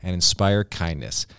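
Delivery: upbeat sponsor read, slowing at the end. Acted. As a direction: sell it like a radio spot. Reads a sponsor ad.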